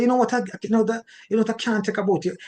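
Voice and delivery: fast, exasperated complaint; spouse complaining. Retold or imitated. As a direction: blurt it out quickly, fed up. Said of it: "When the person say".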